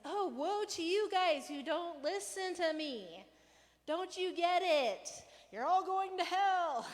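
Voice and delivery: high, loud, slow ranting Jesus; exasperated rant at the unrepentant towns; mock rant. Preacher acting out Jesus ranting at the towns. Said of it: "like, rant".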